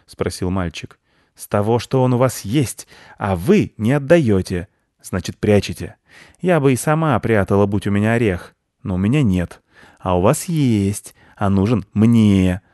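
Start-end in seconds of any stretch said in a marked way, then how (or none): 1.4-12.6 a pushy, suspicious squirrel insisting. Acted. Squirrel accuses the children of hiding the nut.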